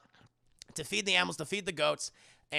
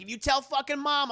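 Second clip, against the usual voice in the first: mock threat; 9 semitones higher, 4 dB louder than usual. Threatening the little sister.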